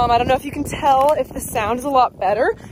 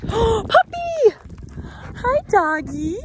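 delighted high cry at a dog; excited shout; 10 semitones higher, much slower than usual. Real, not acted. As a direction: call out to the puppy, thrilled. Surprised to see a dog.

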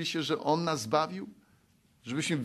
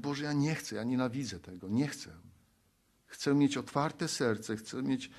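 quiet prayer. Retold or imitated. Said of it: "I wtedy przychodzisz i mówisz".

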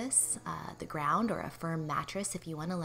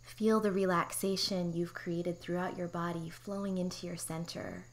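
guided meditation. Real, not acted. Therapist guiding listeners through pelvic floor relaxation, calm meditation voice. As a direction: guide them gently into relaxation, unhurried.

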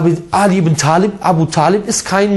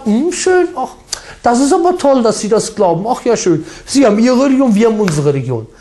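much higher, mocking coo of approval; mock admiring elders; 5 semitones higher than usual. Preacher mocking mosque elders praising a Catholic, much higher mock-sweet voice. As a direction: ape the naive praise with a sneer. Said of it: "Dann sitzen die da vorne und sagen".

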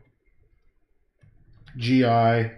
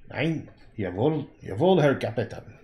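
mock German soldier. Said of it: "all the German I ever learned".

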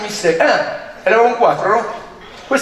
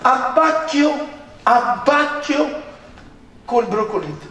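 higher, very slow, drawn-out "Abbacchio, abbacchio" like a grand menu call; pompous waiter announcement; 5 semitones higher, slower than usual. Retold or imitated. Waiter announcing the next course to the table, slow pompous drawl. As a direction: stretch every syllable of "abbacchio" as a proud waiter would.

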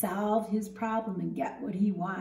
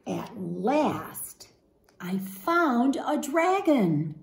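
lively, expressive storybook read-aloud; animated picture-book narration; reading to children. Acted. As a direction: read it to a class of young kids.

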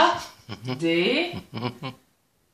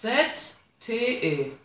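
slow letter-by-letter spelling; backwards spelling; 5 dB quieter, slower than usual. Real, not acted. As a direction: spell the name backwards carefully. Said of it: "Ich glaub, ich kann meinen". (langsam rückwärts buchstabieren)

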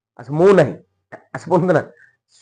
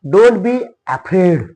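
slow model sentence; 4 semitones higher, 5 dB louder, much slower than usual. Shown as a demonstration. Teacher models an English sentence.

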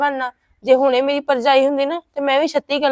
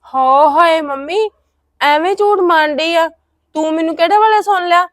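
indignant protest; 5 semitones higher, 4 dB louder than usual. Acted. Elder sister to teasing younger sister, indignant loud protest.

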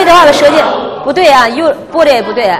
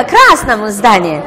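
красном здании said slowly, stress on красном; slow stress demo; 3 semitones lower, much slower than usual. Shown as a demonstration. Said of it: "你说重音放哪儿了".

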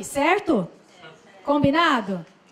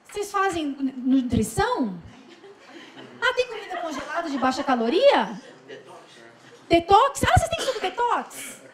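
high, laughing mock-customer questions; mock picky customer; 4 semitones higher than usual. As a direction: play a fussy customer, laughing as you ask.

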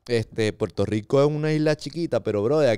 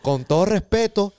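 polite street robber; 2 semitones higher, 4 dB louder than usual. Retold or imitated. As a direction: threaten with exaggerated courtesy. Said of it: "te van a robar".

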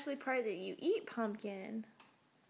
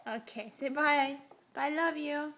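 sing-song goodbye; 4 semitones higher, 5 dB louder than usual. Real, not acted.

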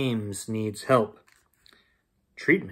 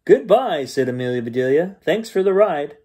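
lively bedtime story reading; story narration. A narrator's reading. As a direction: read it like a bedtime story to kids. Reads bedtime story aloud.

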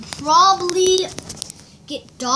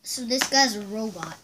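whispering; 5 semitones lower, 8 dB quieter than usual. Acted. Repeating whispered line.

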